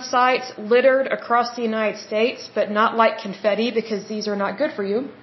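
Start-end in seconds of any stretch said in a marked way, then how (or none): 2.5-5.1 talking through the hiccups; hiccuping between words. Real, not acted. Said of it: "I have the hiccups a little bit".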